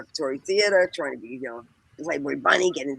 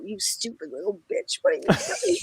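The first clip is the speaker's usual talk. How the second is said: imagined scolding mother; 12 semitones higher than usual. Acted. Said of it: "she's probably gonna go".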